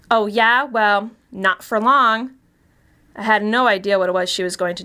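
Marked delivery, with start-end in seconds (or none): 0.1-2.3 mock yell. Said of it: "Bethany yelled back at him".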